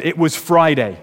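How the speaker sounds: mild mock pulpit shouting; retold preacher shout. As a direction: build the sermon up with force. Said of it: "He picked up the volume still more and shouted".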